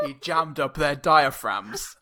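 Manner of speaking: slow, mock-authentic poet recital; Edgar Allan Poe. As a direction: declaim it slowly in a put-on poet's voice. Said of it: "You've gotta do it authentically".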